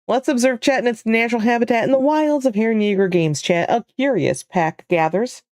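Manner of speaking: lightly hushed wildlife narrator; nature documentary. Acted. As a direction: narrate chat like wild animals. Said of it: "that is so funny".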